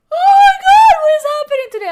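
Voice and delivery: very high, loud yawned words; loud yawning. Real, not acted. Streamer apologises to chat for yawning, loud high yawn. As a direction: talk right through a big, loud yawn. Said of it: "I keep yawning".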